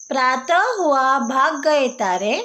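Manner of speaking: प्रातः हुआ भाग गए तारे in a sing-song recitation lilt; recited rhyme. Shown as a demonstration. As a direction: recite it like a children's poem.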